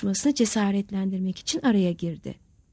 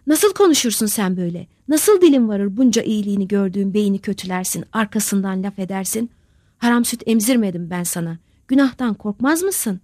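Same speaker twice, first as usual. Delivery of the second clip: louder, trembling reproach from a furious mother; shaking with anger; 5 dB louder than usual. Acted. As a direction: scold him, voice shaking with rage. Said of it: "Sararmış öfkeden titriyordu".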